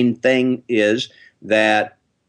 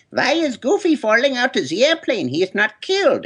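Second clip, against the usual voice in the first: puzzled professor; 13 semitones higher than usual. Retold or imitated. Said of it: "She was like".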